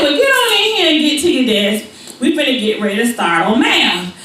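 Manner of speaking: a touch of a bossy teacher calling her in. Retold or imitated. Teacher voiced in story.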